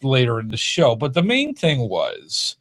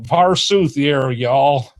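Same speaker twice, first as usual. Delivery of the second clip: put-on Southern accent; much slower than usual. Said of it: "You still talk Southern".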